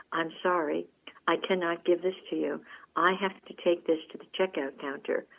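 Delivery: quietly firm, imitating an unruffled clerk; great calmness. Sales gal refusing to hand over the handbag, with great calmness. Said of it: "with great calmness".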